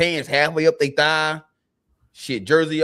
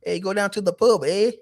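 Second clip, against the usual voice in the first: mock British accent; 6 semitones higher than usual. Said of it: "Oh, that's Canada, boy".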